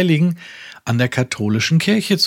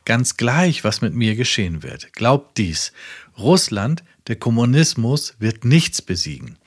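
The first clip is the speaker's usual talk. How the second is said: preaching. Acted. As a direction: proclaim it to the whole world from the pulpit. Reads Branham sermon quote. (eindringlich predigend)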